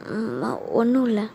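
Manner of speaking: slow, subdued denial to mother; mild tearful. Acted. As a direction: hold back tears, a touch choked. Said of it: "ஏன் கண்ணெல்லாம் கலங்குது".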